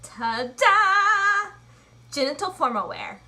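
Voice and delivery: stiff robot voice reading a quote. Pretend. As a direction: announce it like a robot. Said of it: "I sound like a robot".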